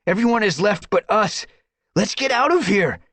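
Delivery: loud, urgent command. A narrator's reading. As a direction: hurry them out. Urgent escape.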